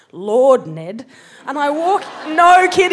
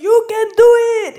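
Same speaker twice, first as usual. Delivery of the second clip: quick, loud, much higher cheer; background cheer; 11 semitones higher, 8 dB louder, much faster than usual. Retold or imitated. Bystander yelling encouragement during the sword fight, fast and loud. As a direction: blurt out a hasty rallying cry.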